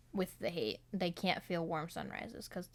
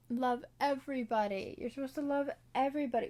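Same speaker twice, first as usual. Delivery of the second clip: preachy; 5 semitones higher than usual. Retold or imitated. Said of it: "he's, like, preaching".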